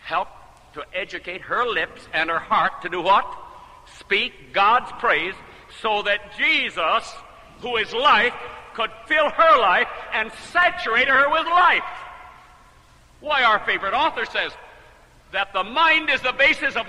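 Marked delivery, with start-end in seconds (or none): 4.0-11.8 slow start swelling louder and higher; preaching build. Real, not acted. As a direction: build to a rising preacher's cry.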